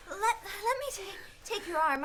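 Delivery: panting between words; winded from walking in the snow; out of breath. Acted. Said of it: "I'm getting out of breath".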